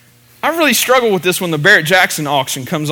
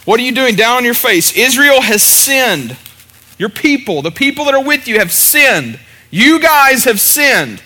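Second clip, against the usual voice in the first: higher, emphatic rebuke, lightly acted; the Lord; 4 semitones higher than usual. Preacher voicing God answering Joshua, emphatic rebuke. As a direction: lightly voice a divine command to get up. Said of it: "the Lord said to Joshua".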